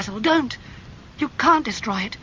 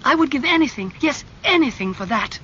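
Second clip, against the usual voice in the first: raised, higher, pleading fury; angry; 7 semitones higher, 4 dB louder than usual. A narrator's reading. Dorian raging at Basil over the portrait, angry and pleading. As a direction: rise to a desperate outburst. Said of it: "his face red and angry".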